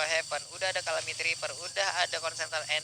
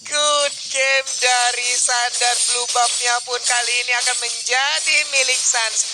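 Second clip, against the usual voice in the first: fighting game announcer; 3 semitones higher, 5 dB louder than usual. Real, not acted. Co-caster hypes the play.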